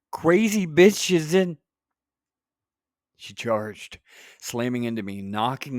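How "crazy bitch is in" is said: high, loud cry for help; frantic emergency call, cut off mid-sentence; panicked yell. A narrator's reading. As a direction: shout it into the phone in a panic. Narrator voices panicked 911 call.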